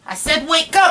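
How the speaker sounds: put-on playful parent shouting the baby awake, laughing; laughing mock shout. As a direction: try to stay stern but crack up. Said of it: "No laughing, okay?".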